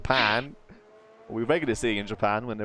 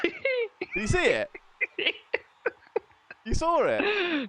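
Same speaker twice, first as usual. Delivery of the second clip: much higher, slow excited questions; eager; 4 dB louder, much slower than usual. Real, not acted. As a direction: drag it out with glee. Eager checking about tumbleweed.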